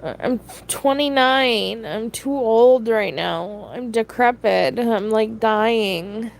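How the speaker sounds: stoner. Real, not acted. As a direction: talk like you're baked. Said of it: "I am so high right now".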